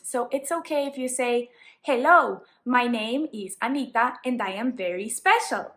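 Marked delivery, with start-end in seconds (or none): 1.8-5.7 Latino accent with careful, correct English pronunciation; clearly pronounced English in a Latino accent; accented but correct. Shown as a demonstration. Teacher showing learners what is okay, Latino accent with correct pronunciation. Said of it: "made sure that my pronunciation was correct".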